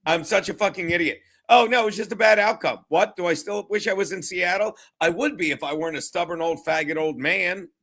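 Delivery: mocking impression of a stubborn old coach; lightly hammed-up self-berating coach; Pete Carroll. Host mimics a coach owning up to being an idiot, mocking. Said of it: "Let's listen to Pete Carroll".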